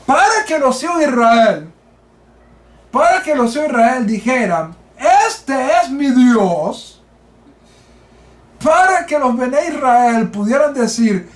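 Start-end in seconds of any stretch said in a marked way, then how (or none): 5.3-7.0 slow, with a catch of tears in the voice; moved preacher, voice near tears; tearful awe. Acted. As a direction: let the words break with emotion. Preacher moved quoting the verse.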